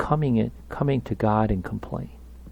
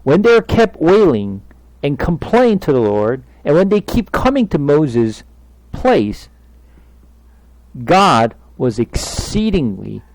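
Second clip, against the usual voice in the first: forceful preaching; 4 semitones higher, 8 dB louder than usual. Acted.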